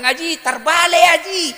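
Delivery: high, loud retold warning; exasperated shout. Teacher telling Haji the phone is reversed, exasperated mock shout. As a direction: yell to stop his mistake. Retelling himself shouting a correction.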